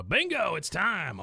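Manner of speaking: retold eager cry, easing off after; mock excited announcement. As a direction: call it out like a bingo win. Acting Peggy starting lovemaking.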